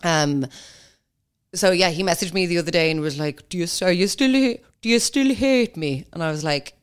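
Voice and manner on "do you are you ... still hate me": slightly high, needy mimicry; mock pleading ex. Ex messaging her years later, mock needy. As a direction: imitate a pathetic plea, drawing it out.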